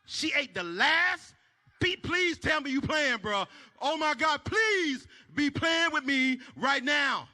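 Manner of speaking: mock fury over the last piece of cake; mock outrage. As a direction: act scandalized over cake.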